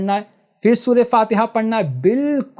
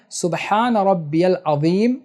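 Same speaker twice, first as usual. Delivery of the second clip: unhurried tasbih; slower than usual. Shown as a demonstration. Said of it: "آرام آرام سے پڑھنا ہے".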